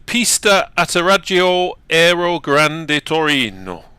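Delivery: rolled, sing-song Italian place name; hammed-up Italian accent. Shown as a demonstration. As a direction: say it like a proud Italian. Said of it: "you gotta say it with an accent".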